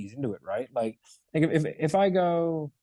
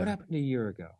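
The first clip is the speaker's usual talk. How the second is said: grave consequence probe; consequence question voice; 3 dB quieter, faster than usual. Shown as a demonstration. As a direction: ask it heavy and pointed. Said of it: "that's your consequence question voice".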